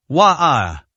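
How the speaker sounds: a mild acted sob; a short, understated wail; sorrowful sob. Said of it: "let out a sorrowful sob".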